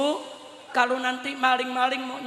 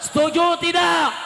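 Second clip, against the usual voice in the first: raised, ringing questions to a crowd; rallying call; 2 semitones higher than usual. Real, not acted. Preacher asks the crowd to back a peaceful Aceh, rallying call.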